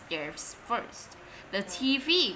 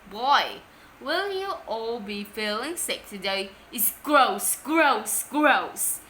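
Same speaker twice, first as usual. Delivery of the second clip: maniac presenter; 3 dB louder than usual. Acted. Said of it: "the presenter, Marvin the Maniac".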